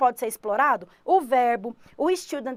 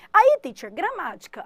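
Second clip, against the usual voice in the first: higher and louder, calling out a request; eager student voice; 5 semitones higher, 5 dB louder than usual. Pretend. Student calling out to the teacher, higher and louder. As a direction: pipe up like a pupil.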